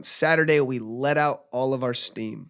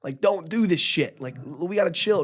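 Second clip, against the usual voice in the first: alarmed pleading; 5 semitones higher than usual. Retold or imitated. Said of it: "Like, I'm like".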